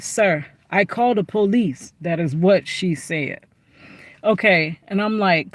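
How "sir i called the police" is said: lightly imitated broken English accent on "Sir, I called the police". Restaurant lady warns the man, lightly imitated broken English accent. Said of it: "She said it like".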